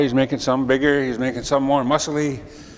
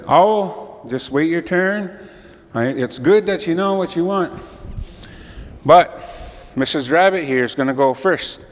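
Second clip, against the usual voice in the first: lightly higher firm creator; mild creator voice; 3 semitones higher than usual. Acted. Creator tells the eager owl to wait, lightly firm. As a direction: gently tell the owl to wait.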